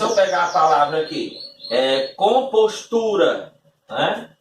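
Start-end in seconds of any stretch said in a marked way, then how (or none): 2.1-3.5 "compostura" slow, with TU as the peak; "compostura" said com-pos-TU-ra, slowly; stress on TU. Shown as a demonstration. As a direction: draw out "compostura" and lean on the syllable tu. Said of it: "a parte intensa maior aqui".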